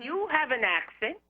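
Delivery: "You" set apart and lifted, ending on a rise; stress on You. Retold or imitated. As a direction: point it at the listener with "You". Retold retort, contrasting who has accent.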